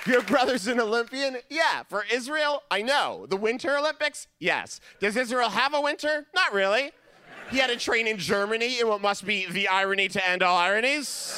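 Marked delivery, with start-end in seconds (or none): 0.1-6.9 incredulous questioner. Retold or imitated. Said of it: "rapid exchange".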